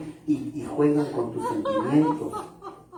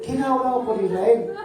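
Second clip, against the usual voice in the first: mock pious question; 9 semitones higher, 3 dB louder than usual.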